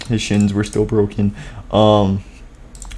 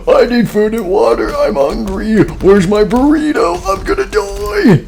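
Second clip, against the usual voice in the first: panicked; 11 semitones higher than usual. Acted. Robot panics about food.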